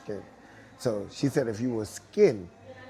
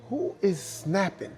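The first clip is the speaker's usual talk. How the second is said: higher, slow, laughing as he asks; amused laughing question; 8 semitones higher, slower than usual. Retold or imitated. Director asking who is snapping, laughing. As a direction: ask it with a laugh.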